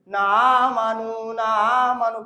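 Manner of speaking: না আমানু with 'na' run into the next 'a'; common misreading. Retold or imitated. Teacher showing what must not be read, mispronounced. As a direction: slur না into আমানু without the glottal catch. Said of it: "আমরা এখানে পড়ি".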